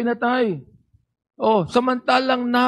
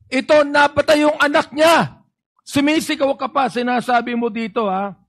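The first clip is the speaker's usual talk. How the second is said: heated rebuke; 4 semitones higher than usual. Real, not acted. Senator berating the colonel at the hearing, heated near-shout. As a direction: press her hard, voice climbing with outrage. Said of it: "Hindi ako nagagalit sa'yo. Dynamic lang ako".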